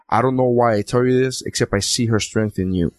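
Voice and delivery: low, sincere movie quote; sweetly quoted line. Retold or imitated. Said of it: "See how I was gonna make it sweet".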